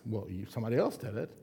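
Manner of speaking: quick, offhand dodge; deflecting excuse. Retold or imitated. A caught sinner deflecting, fast and evasive. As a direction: brush the blame onto someone else. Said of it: "He can deflect".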